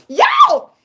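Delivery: loud, high burst of glee; excited shout. Real, not acted. Vlogger bursting out to viewers, excited shout. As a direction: whoop it out.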